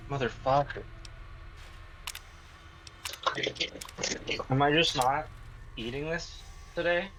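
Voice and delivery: straining at the lid; exasperated jar struggle; opening stuck jar. Real, not acted. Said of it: "open this fucking jar".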